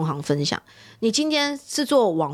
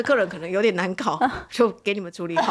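pretending nothing happened. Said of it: "装没事说".

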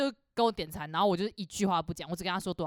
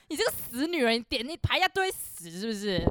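mild mock anger; 3 semitones higher than usual. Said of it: "因为我他妈超不爽".

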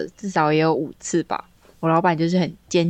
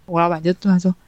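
ordinary delivery

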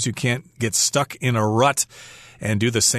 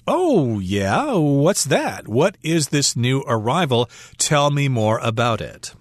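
intrigued Frank. Acted. Customer asks barista about the new drink, lightly acted curiosity. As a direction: play an interested customer, mildly. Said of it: "And Frank says".

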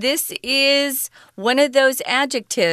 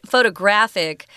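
photographic with stress on graf; stress on third syllable. Shown as a demonstration. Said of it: "the emphasis or zhongyin is on the third syllable".

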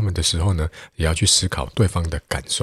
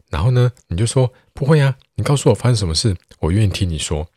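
eager friend; 5 semitones higher than usual. Acted. Friend eagerly pressing upset Xiaomei.

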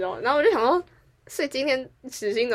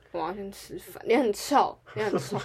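put-on sulky kid; 3 dB quieter than usual.

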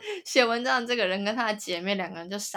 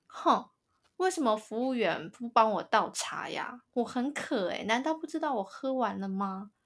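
imitating whiny girlfriend; 3 semitones higher than usual. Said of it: "我刚刚为什么要学她讲话".

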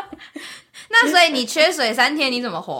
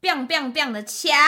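talking through braces; lisping around a brace; 3 dB quieter than usual. Real, not acted. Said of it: "你想要逼一个戴牙套的人讲多清楚的话".

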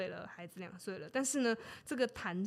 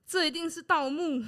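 higher and louder, an outraged cry; indignant accusation; 7 semitones higher, 6 dB louder than usual. Acted. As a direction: shout the accusation like a stunned father. Father accuses grave robbery.

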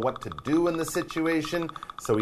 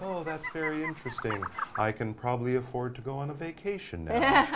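unbothered calm; 4 dB quieter than usual. Pretend. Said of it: "Why are you so calm".

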